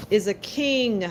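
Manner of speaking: "king" drawn out and leaned on; stress on king. Real, not acted. Reader naming Isabella's card, "king" emphasized. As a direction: put weight on the word "king". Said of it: "I put emphasis on the word king".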